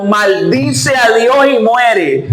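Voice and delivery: slow repeat with a laugh in it. Retold or imitated. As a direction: laugh at how absurd the advice is. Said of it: "mira el consejo que le estaba dando". (repitiendo entre risas, despacio)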